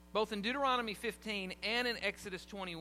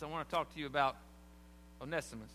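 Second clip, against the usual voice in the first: softer, gently naming him; personal and tender; 5 semitones lower, 5 dB quieter, faster than usual. Retold or imitated. Preacher voicing Paul naming the slave, softer and tender. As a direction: let the name land with care. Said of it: "He says".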